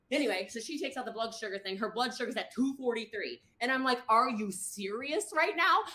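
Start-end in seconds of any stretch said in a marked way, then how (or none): 4.1-5.8 incredulous. Retold or imitated. Retold disbelief at blood sugar.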